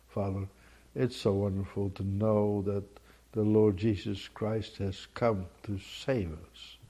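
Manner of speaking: soft, slow prayer voice; quiet, unhurried devotional prayer; closing prayer. Acted. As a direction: pray it gently to the Father.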